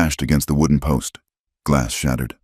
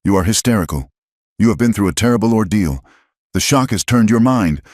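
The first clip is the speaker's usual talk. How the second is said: cutting, condescending; 6 semitones higher, 4 dB louder than usual. A narrator's reading. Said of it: "his voice cutting through the smoke".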